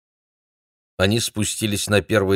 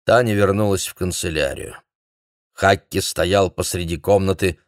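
usual speaking voice

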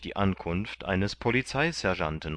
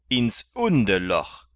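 sergeant; 3 semitones higher, 6 dB louder than usual. A narrator's reading. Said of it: "antwortete der Sergeant".

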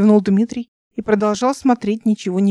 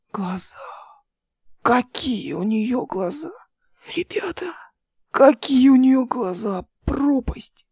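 haunted whisper; 3 semitones higher, slower than usual. A narrator's reading. Pilot haunted by her eyes.

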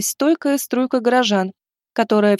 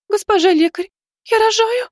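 much higher, sobbing plea; 12 semitones higher than usual. A narrator's reading. Pregnant woman telling the healer she's giving birth, sobbing. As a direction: sob it out to the healer. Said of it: "всхлипнула женщина".

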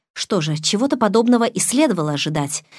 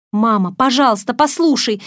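higher, louder pleading cry; desperate plea; 6 semitones higher, 5 dB louder than usual. Acted. Daughter pleads desperately on the phone to mother. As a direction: beg your mother to listen. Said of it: "взмолилась я".

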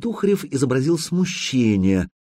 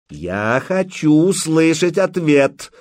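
louder and higher, slow and insistent; raised voice; 7 semitones higher, 5 dB louder, slower than usual. Acted. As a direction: demand the answer, voice raised. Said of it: "повысил голос большой хан".

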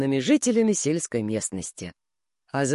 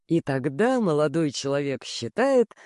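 ordinary delivery

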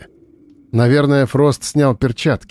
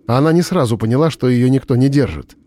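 plain reading voice

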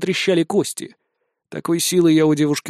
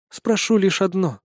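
icy tone; 3 semitones higher than usual. Acted. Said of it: "ответила ледяным тоном Дарья".

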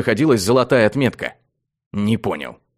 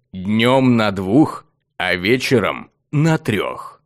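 lightly voiced slow rumbling sphinx; regal purring riddling voice. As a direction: pose the riddle like an ancient guardian. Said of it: "пророкотала в ответ".

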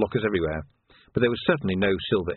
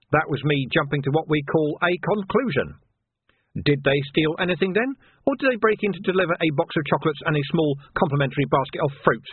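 higher-pitched, pointed sarcasm; sarcastic; 7 semitones higher than usual. A narrator's reading. Vimes mocks the sergeant's break-in report, sarcastically. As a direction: lay the sarcasm on as you question. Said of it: "impervious to sarcasm".

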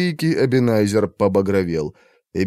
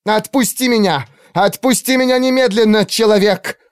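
very high, louder outraged shriek; furious struggling cry; 12 semitones higher, 3 dB louder than usual. Acted. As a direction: fight him off in fury. Elf struggles against Arthur. (эльфийка яростно вырывается и кричит)

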